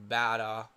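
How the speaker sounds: Bada as "BAD-uh", open first vowel; trial pronunciation. Shown as a demonstration. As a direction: try out Bada, ending in a weak "ah". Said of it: "I feel like that's how it's pronounced".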